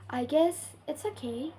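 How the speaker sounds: hesitant fall-rise toward "okay"; reserved dip and lift on "okay"; fall-rise intonation. Shown as a demonstration. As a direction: let "okay" sound uncertain, falling then rising. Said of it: "pitch falls and rise raised again".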